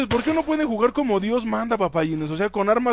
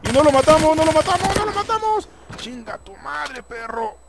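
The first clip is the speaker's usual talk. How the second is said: high laughing disbelief; 5 semitones higher, 5 dB louder, much slower than usual. Real, not acted. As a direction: laugh it out, rising higher. Laughing at missed kill.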